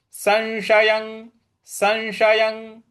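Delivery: संशयं said slowly with a clear nasal अं; संशयं, the अं sounded fully; recitation demo. Shown as a demonstration. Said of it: "उसका उच्चारण आना चाहिए". (अनुस्वार साफ़ बोलते हुए संशयं)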